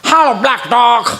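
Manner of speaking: mock prim dog greeting. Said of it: "ના".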